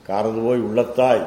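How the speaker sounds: காரதுபோய் ending போய், said fast; proposed reading. Shown as a demonstration. Teacher offering his corrected reading of the verse. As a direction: recite காரதுபோய் உள்ளத்தாய் quickly with போய். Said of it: "If it is like that, it must be".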